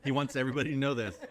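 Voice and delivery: teasing through laughter; giggling while ribbing him; laughing. Real, not acted.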